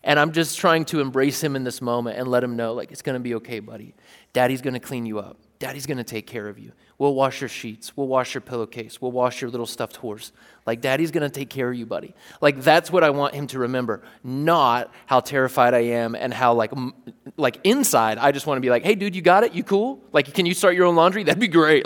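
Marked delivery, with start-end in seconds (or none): 2.9-12.1 put-on gentle and much softer, soothing a sick little boy; soft comforting dad. Dad soothing his sick son over the bucket, softly tender. 18.8-21.8 higher, light and offhand; mock breezy dad. Dad secretly wishing his son would handle it, mock casual. Inner wish to skip the mess.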